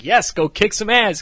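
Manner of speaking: high, punchy rallying cry; cheering her on. Retold or imitated. Husband cheering his wife into action, excited urging. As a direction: egg them on with gusto. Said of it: "cheering her on".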